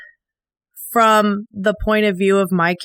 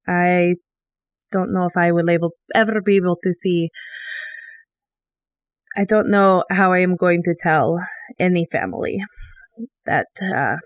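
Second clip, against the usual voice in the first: emotional in character; 2 semitones lower than usual. Acted. Eisen noble telling the table her cousin died, grieving and fading. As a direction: let the grief pull the voice down and away. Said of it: "this is entirely in character, and this is emotional".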